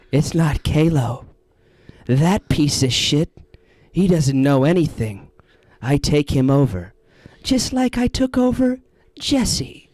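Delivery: mock possessing spirit. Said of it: "the Kalo impression".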